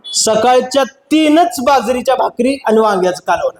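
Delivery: तीनच leaned on a little, rest plain; a mild push on तीनच, only three; stress on तीनच. Retold or imitated. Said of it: "तीनच या शब्दावर तिनं जोर दिला". (तीनच या शब्दावर हलकासा जोर)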